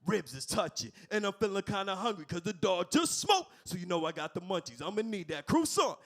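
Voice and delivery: loud rapping dog voice; rapper impression. Comic ordering at the drive-thru as a rapper, loud and rapping. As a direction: bark the order like a rapper. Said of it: "do this impression".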